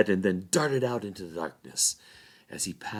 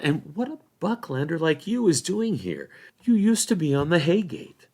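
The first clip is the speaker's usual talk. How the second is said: put-on higher, louder voice of an indignant young hobbit; Merry, commanding; 9 semitones higher, 5 dB louder than usual. A narrator's reading. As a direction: demand answers with authority.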